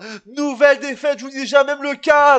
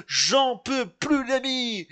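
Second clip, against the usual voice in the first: drawn-out despair; 4 dB quieter, much slower than usual. Real, not acted.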